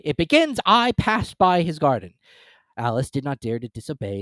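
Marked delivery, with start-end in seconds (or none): 0.0-2.1 high, loud prompt; feed her the line; a high Griffin cue. A narrator's reading.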